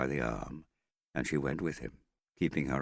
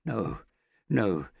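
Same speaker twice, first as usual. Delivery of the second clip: higher, louder no; shocked protest; 7 semitones higher, 6 dB louder than usual. Acted. Hester protesting the Australian's cruelty, shocked and louder. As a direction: push back against the cruelty.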